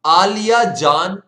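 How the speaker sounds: drawn-out teacher chant of आलिया जान; slow sing-song drill. Shown as a demonstration. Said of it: "फिर से बोलो".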